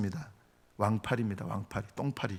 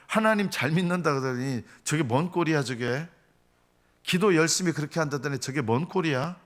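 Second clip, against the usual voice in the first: higher-pitched scornful jeer; mocking; 3 semitones higher than usual. Onlookers sneer at a praying man, mocking. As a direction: jeer at someone's piety. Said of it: "이러면서 기도하는 것까지 조롱하는".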